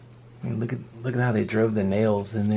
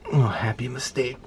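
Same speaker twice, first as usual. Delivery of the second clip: Bob Ross voice. Pretend. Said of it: "start talking like Bob Ross".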